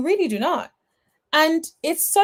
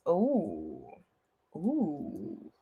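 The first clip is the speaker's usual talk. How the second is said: low, soft drawn-out ooh; a low, quiet teasing ooh; low mocking oohs; 9 semitones lower, 12 dB quieter than usual. Real, not acted. Reacting to bronze.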